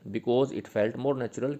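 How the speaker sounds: slow dictation. Shown as a demonstration. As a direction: dictate it so students can write it down. Dictating notes slowly.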